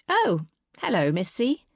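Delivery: sheepish bright greeting; guilty schoolgirl. Acted. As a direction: caught out, all innocence. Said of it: "grinning guiltily like a naughty schoolgirl".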